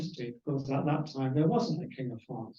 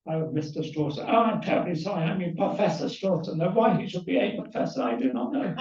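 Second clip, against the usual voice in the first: mock-apologetic lecturer, pitch lifting; Casimir Louis; 2 semitones higher than usual. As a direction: play an exaggerated apology turning to puzzlement. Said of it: "he had to say".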